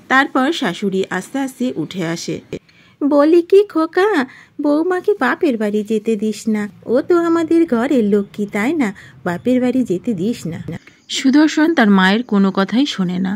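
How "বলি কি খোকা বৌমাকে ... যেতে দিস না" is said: high, coaxing mother's voice; pleading mother-in-law. Acted. Mother begging son to keep his wife home, pleading. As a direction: draw out the opening, then plead higher.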